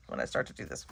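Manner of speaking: breathy laugh through the words; giggling while she explains. Real, not acted. Laughing at own clumsy demo.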